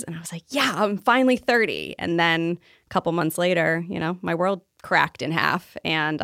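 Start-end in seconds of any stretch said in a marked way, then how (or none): 0.5-1.9 a touch of excitement, retold; lightly acted glee at a milestone birthday; excited. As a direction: re-enact a higher-pitched little cheer. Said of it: "I was so excited for my thirties".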